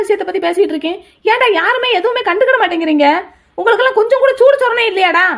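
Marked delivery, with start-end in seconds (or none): 1.3-5.3 higher, exasperated rebuke; indignant scolding. Acted. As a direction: shame them for not caring. Scolding family for ignoring him. (குடும்பத்தைக் கண்டிக்கும் கோபக் குரல்)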